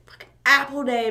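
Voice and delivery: a retold burst of excitement in a whisper; hushed mock excitement; excited. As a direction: whisper it like you're bursting with glee. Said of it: "I was so fucking excited".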